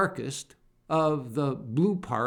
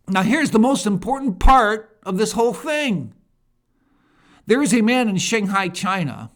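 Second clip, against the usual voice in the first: raised, punchy commentary read; emphatic quote reading; 4 semitones higher, 5 dB louder than usual. Acted. Radio host reading a commentator's report to listeners, emphatic. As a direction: read it out like an urgent exposé.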